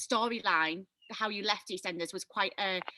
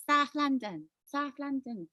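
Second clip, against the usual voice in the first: put-on higher-pitched stab at a London accent; attempted Danny Dyer accent; 4 semitones higher, slower than usual. Host obliges a viewer's request, shaky London accent. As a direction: try a South London accent, badly. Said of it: "Do it in a Danny Dyer accent".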